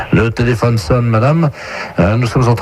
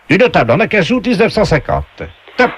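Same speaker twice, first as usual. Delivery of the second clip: game show voice; 6 semitones higher than usual. Acted. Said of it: "on vous passe tout de suite la voix du jeu".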